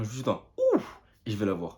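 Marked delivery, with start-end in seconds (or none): 0.7-1.0 loud, high "ouf"; mimicked whoosh. Shown as a demonstration. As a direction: let out a sudden high whoosh of a sound. Imite son élan vers elle. (« ouf » bruité, aigu et fort)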